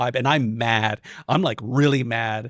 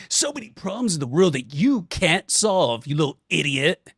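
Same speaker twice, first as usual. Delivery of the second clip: mock ad announcer; 3 semitones higher than usual. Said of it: "you hear off screen".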